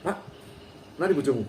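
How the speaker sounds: blunt demo of a rude question; coarse manner. Acted. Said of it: "kasar lagi". (bertanya dengan kasar)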